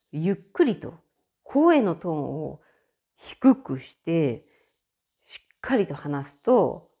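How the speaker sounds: slow, measured, showing how it's done; slow deliberate speech. Shown as a demonstration. Explaining how to talk at German offices, slow and deliberate. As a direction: draw each word out slowly and firmly. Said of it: "わざと、ゆっくりと".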